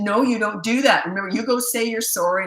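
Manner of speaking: imitated mother's stagey telling-off; showy scolding. Mother making her son apologize for an onlooker, showy scolding. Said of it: "putting on the show".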